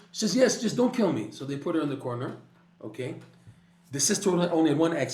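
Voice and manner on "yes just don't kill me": desperate plea. Retold or imitated. Woman pleads again.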